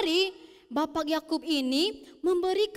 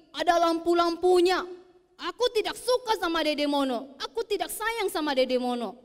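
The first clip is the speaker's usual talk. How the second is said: put-on sulky child; 2 semitones higher, 5 dB louder than usual. Riki admits his jealousy.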